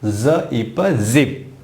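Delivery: ज इप जिप blended slowly sound by sound. Shown as a demonstration. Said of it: "जेड का sound होगा ज".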